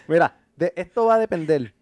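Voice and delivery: mouth at waterline. Real, not acted. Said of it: "Que estás cavando un túnel".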